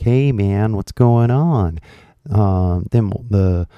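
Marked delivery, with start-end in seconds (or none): 0.0-1.8 casual American greeting. Retold or imitated. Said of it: "people being all like".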